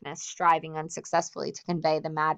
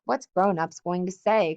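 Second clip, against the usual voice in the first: louder anxious cry; 5 dB louder than usual. Acted. Piggy despairing at the scattering boys, loud cry. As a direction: call out in dismay at the chaos. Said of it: "cried Piggy again".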